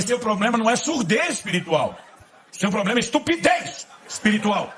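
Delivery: high, loud, laughing through it; laughing at his own joke; laughing punchline. Real, not acted. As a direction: deliver the joke cracking up.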